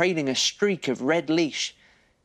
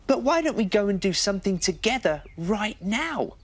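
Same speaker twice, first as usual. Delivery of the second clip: put-on higher, friendly little girl voice; higher voice for the girl on the swings; 7 semitones higher than usual. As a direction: greet him like a small girl. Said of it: "said Ruby".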